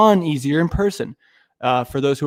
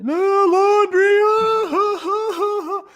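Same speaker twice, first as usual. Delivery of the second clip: much higher, slow sing-song schoolyard taunt with mock laughter; mocking kid taunt; 4 dB louder, much slower than usual. Recalling classmates teasing his name, high mocking sing-song. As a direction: tease like a third grader. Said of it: "I've been hearing this shit".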